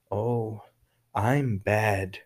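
low, soft, flirty I'm bad; sultry mock I'm bad; suggestive. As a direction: purr it with a sexual hint. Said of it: "é uma conotação sexual".

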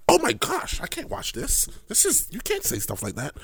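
mock offended viewer. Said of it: "you be like".

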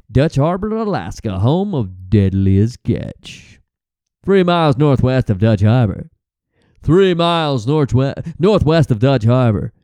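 hammed-up reality TV narration; TV narrator voice. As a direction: intone it like a crab-fishing show intro. Mimics Deadliest Catch narrator.

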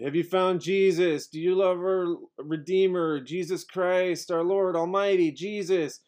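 lightly mocking street preacher; evangelical preacher. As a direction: imitate a corner evangelist calling out. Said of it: "evangelicals standing on the corner going".

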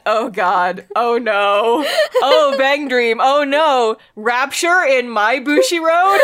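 high, loud wail through laughter; laughing mock horror. Real, not acted. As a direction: lament in comic horror while cracking up.

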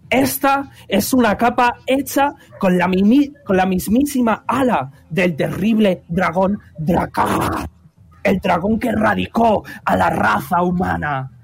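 high, showy dwarf presenter; dwarf announcer. Acted. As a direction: play the cheerful arena host. Presenter shows dragon cape.

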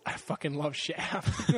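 slow, laughing movie-quote delivery; mock quote. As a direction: quote it like a famous line while laughing.

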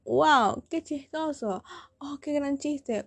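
mildly mocking fake praise; sarcastic amazement. Reacting to the classmate's joke, sarcastic. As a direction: feign being impressed by a bad joke.

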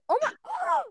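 whispered, high shocked oh my God; breathless gasp. Real, not acted. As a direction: gasp it out in disbelief. Gasp at a fact.

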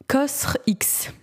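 whispered Cosr X, unsure of the name. Real, not acted. Vlogger whispering a brand name she can't pronounce. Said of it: "je ne sais pas comment ça se prononce".

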